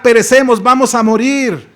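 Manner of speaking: loud cry of doom; panicked shout. Acted. Disciples yelling in the storm, loud panicked cry. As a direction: yell it over the storm.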